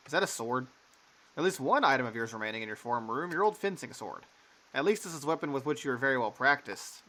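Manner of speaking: measured narrator read; game narration. Acted. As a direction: set the scene like a storyteller.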